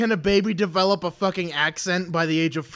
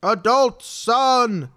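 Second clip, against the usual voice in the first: excited exclamation; 5 semitones higher, 5 dB louder, much slower than usual. Real, not acted. Excited recognition of title.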